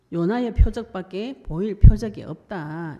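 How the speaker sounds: loud, slow proclamation of Jesus' words; solemn loud quoting; emphatic quote. Acted. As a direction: declare it slowly with weight.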